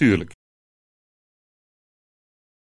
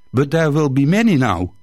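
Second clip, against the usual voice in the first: hopeful. Acted. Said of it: "vroeg hij hoopvol".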